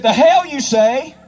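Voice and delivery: high, slow imitation of an outraged dad; mock incredulous farm dad; indignant disbelief. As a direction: balk slowly at an absurd demand. Dad balks at handing over keys.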